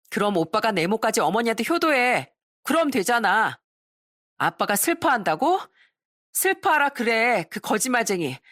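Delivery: bitter and defiant, lightly voiced; a touch of a resentful teen girl; sulky teen daughter. Rebellious daughter talks back.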